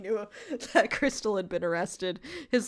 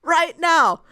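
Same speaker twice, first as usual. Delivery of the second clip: mild mock anger; 5 semitones higher, 3 dB louder than usual. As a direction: play the furious husband, understated. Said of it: "Hans, very angrily, says".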